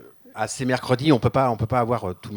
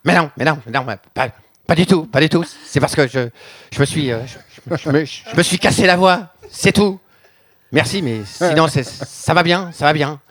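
imitant un chanteur. Acted. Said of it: "me mettre dans la peau du personnage".

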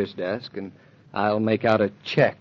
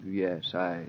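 much softer, forced yes; quiet; 5 semitones lower, 12 dB quieter than usual. Acted. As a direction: barely get the words out. Husband dismayed, forced answer.

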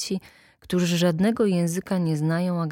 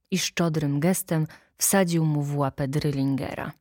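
ordinary delivery, nothing marked

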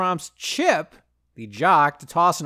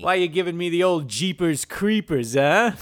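fifties greaser. Acted. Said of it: "talking like a fifties greaser".

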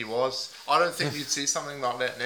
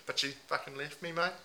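a lightly put-on Aussie bloke accent, mate on every line; 3 dB louder than usual. Host playing a heartbroken meth packer in a mild put-on Aussie accent. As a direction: ham up the ocker Aussie, leaning on mate. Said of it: "put on a few different voices".

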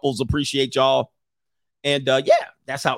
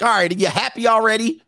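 exasperated husband; 9 semitones higher than usual. Retold or imitated. Bill voiced exasperated.

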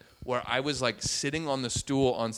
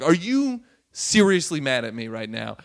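louder, retold disbelief; incredulous; 7 dB louder than usual. Comic to audience mad at him, incredulous. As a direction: stress it in mock astonishment. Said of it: "literally, like, incredulous".

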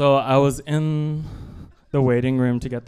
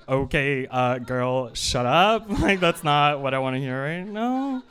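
mock exasperated; 2 semitones higher than usual. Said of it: "And I was like".

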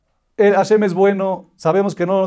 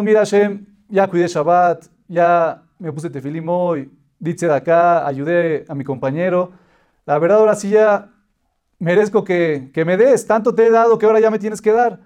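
demanding prayer. Retold or imitated. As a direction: insist you are owed, rising in pushiness. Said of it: "nos paramos a exigirle a Hashem y a demandarle".

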